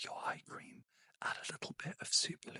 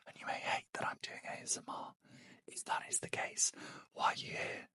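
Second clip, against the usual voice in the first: ASMR whisper. Real, not acted. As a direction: whisper close to the mic, winding down for sleep. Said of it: "where I'm not talking like this".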